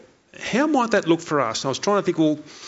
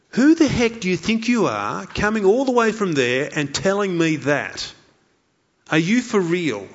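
incredulous challenge; 4 semitones higher than usual. Acted. Acted sceptical response to foreign preacher.

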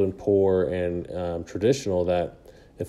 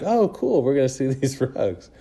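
high-pitched, laughing "oh cool" reaction; mock enthusiasm; 6 semitones higher than usual. Tourists told they will see rugs, reacting with mock excitement. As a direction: play the eager tourist, pitched way up.

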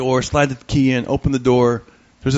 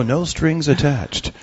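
mock motto; much slower than usual. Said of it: "our motto".

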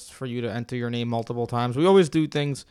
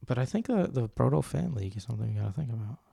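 soft, confiding undertone; hushed, near whisper; 6 dB quieter than usual. Real, not acted. Host floats a fan league idea to co-host, whispering. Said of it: "I don't know why I'm whispering that".

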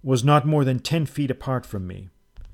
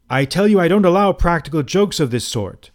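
higher, louder indignant protest; 6 semitones higher, 6 dB louder than usual. A narrator's reading. Trapped guest scolding host for the joke, indignant. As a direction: scold him, outraged. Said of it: "I repeated angrily".

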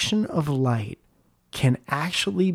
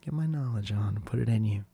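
lightly done teacher voice, a bit lower and quieter; 5 semitones lower, 4 dB quieter than usual. Pretend. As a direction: put on a mock lecturing tone. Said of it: "Get my teacher voice on".

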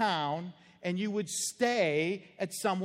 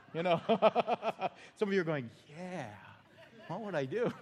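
1 laughing. Real, not acted. Laughing at congregation's daydream.

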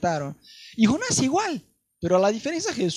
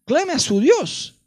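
urgent sailor; 7 semitones higher than usual. Retold or imitated. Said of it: "habló con él".

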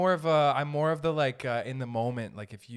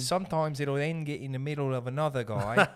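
wandering mock Birmingham accent. Shown as a demonstration. Co-host demonstrates his slipping accent, wobbly Birmingham accent. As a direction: let the Birmingham accent start to drift. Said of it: "it's like Birmingham or something".

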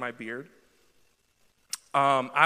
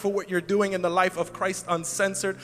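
prayer. Acted. Leads a prayer.

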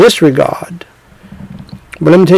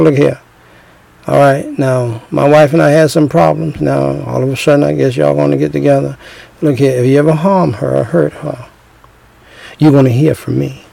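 straight-faced warning; 3 semitones lower, 4 dB quieter than usual. Retold or imitated. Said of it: "just like that with the face straight".

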